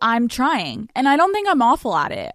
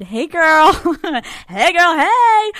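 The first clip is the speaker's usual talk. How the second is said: mock cheery greeting; 7 semitones higher, 7 dB louder, slower than usual. Fake cheery greeting to therapist.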